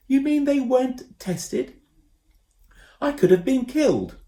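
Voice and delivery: high, loud indignant protest; outraged boy. A narrator's reading. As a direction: protest in disbelief at the danger. Ben outraged.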